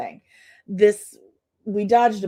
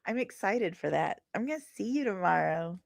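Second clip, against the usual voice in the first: plain; 9 dB quieter than usual. Real, not acted. Repeats it to himself, quietly.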